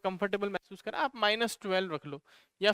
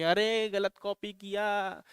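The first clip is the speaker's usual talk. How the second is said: slow, drawn-out mimicked objection; mock viewer complaint; much slower than usual. Teacher imitating students in the comment section, slow mock complaint. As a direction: lightly mimic a commenter, stretching the words. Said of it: "आप comment section में कहेंगे".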